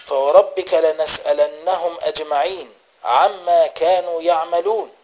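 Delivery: repeated verse, recited with rising intensity; emphatic recitation. A narrator's reading. Mother overhears her son reciting at night, emphatic recitation. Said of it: "وسمعته يقرأ".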